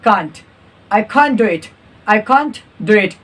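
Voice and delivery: "can't" said lightly, final t barely there. Shown as a demonstration. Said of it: "हल्का बोलना है, इसको थोड़ा सा कम".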